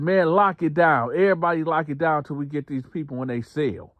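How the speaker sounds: high, loud order to lock down, fast; guard yelling. Retold or imitated. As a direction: shout everybody back into their cells. Guard ordering lockdown again.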